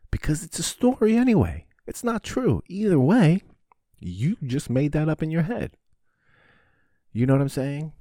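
nearly yelling it to make it stick; emphatic high outburst. Real, not acted. Host pushing his point at listeners, high and loud. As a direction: pitch jumps way up and loud, driving the point.

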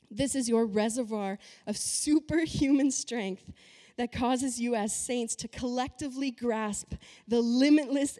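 forceful reading, key words hit hard; emphatic scripture reading. Acted. Preacher reads the Mirror translation to the congregation, emphatic reading. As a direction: read the verse out with punchy, preached emphasis. Reads a Bible passage aloud.

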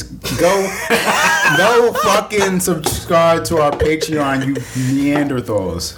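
high, stretched-out holler of comic abuse; mock scolding. Host goading listeners to subscribe to their Patreon, mock scolding.

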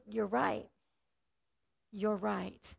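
soft, hushed admission; a hushed, humble woman at the well. Retold or imitated. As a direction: concede it quietly and humbly. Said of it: "She goes".

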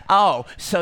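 a hint of a sly weasel; lightly sneering, low; enemy voice. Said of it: "use the enemy voice".

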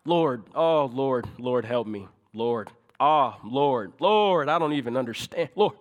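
a hint of desperate calling on God; gentle imitated plea; mild pleading prayer. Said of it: "that's kinda how we approach God".

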